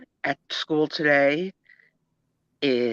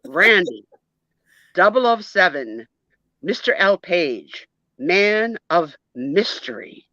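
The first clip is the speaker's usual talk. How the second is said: lightly put-on British accent; measured agent-style name in a mild British accent. Schoolboy reciting his full secret-agent name, in a light British accent. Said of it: "are you speaking with a British accent?".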